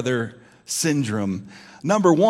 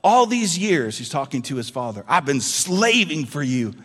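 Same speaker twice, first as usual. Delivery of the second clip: louder resentful complaint; angry older brother; 2 semitones higher, 4 dB louder than usual. Acted. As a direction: push the grievance at father. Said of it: "He's, he's angry".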